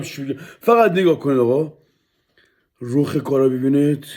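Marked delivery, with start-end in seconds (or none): 0.6-1.8 "فقط نگاه کنید آقا" called louder, "فقط" stressed. Real, not acted. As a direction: announce it to the viewers. First take of the line, called out. ("فقط نگاه کنید آقا" با صدای بلند)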